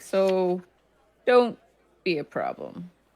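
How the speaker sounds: deadly serious, grave, slow in-character delivery. Voicing a town leader warning the party: very serious in-character tone. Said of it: "She gets very serious there".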